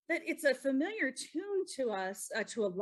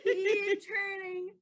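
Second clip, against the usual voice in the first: laughing; 6 semitones higher than usual. Real, not acted. Laughing at the upside-down card.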